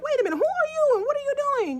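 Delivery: high, fast demanding challenge; angry confrontation. Retold or imitated. Husband confronting the intruder by his bed, high fast angry demand. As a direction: snap it out at the stranger in your bedroom.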